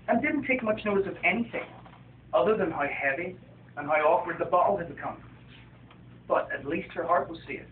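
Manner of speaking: gentle picture-book reading voice; story narration. A narrator's reading. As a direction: read it like a bedtime story to children. Author reads his picture book.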